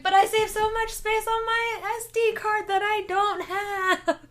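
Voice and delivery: mock the digital argument through laughter; laughing sarcasm. Retelling own sarcastic reply.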